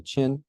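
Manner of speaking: "Qin" with Q as a CH sound. Shown as a demonstration. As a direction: say "Qin" starting like "chin". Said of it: "that is to make the Q a, uh, C H".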